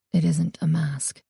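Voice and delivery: hushed whisper. A narrator's reading. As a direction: whisper the secret. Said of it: "He lowered his voice".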